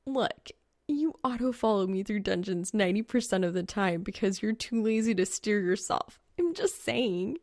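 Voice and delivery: a hint of a young woman needling him; lightly voiced teasing girl. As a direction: tease him lightly, in her voice. Narrator voices Reaper's teasing.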